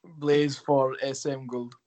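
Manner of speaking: slow careful Swedish phrase; speaking Swedish, slowly. Shown as a demonstration. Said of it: "in Swedish, you would just say".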